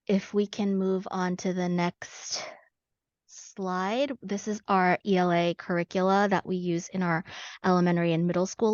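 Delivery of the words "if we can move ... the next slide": whispered aside. Real, not acted. Aside asking for next slide.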